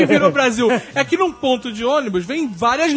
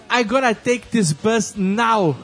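action hero; much slower than usual. Retold or imitated. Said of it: "O que que o Jack Bauer faria".

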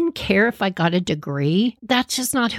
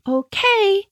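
hesitant mom; 6 semitones higher than usual. Retold or imitated. Mom voiced, unsure about octopus.

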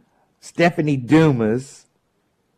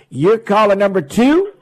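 radio contest promo; 4 semitones higher, 4 dB louder than usual. Real, not acted. Radio call-in contest countdown.

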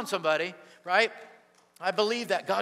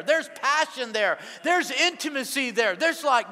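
higher, louder, calling out to the room; preaching fire; 5 semitones higher, 3 dB louder than usual. Real, not acted. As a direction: raise the house with it. Preacher building to the climax.

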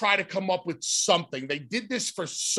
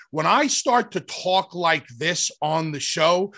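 deliberate, carefully articulated talk; clear, precise, condescending. Shown as a demonstration. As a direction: demonstrate over-clear explaining that can sound condescending. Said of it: "trying to speak very clearly".

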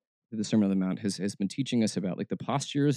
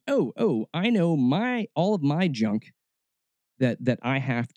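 lightly hammed-up woe, pitched high; mock fretting; 4 semitones higher, slower than usual. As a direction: moan theatrically over your burdens. Acting out worrying over one's junk.

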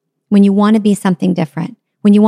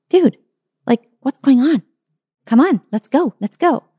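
higher, pushy nagging dog voice; impatient dog; 6 semitones higher than usual. Acted. Dog nagging the pregnant elephant, impatient and higher.

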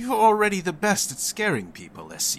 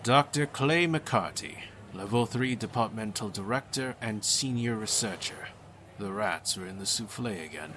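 firm and even. Acted. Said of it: "in a firm and even tone".

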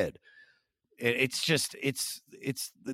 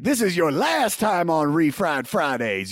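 loud, slow, higher-pitched proclamation; mock-shout a lifetime ban, drawn out; retold banishing shout; 4 semitones higher, 5 dB louder, slower than usual. Retold banning from the show.

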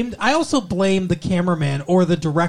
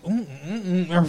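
mocking hums; 4 dB quieter than usual. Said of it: "some weird face".

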